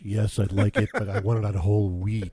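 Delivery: low evil villain voice; unhinged villain. Pretend. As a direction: growl it like a villain. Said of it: "my evil voice".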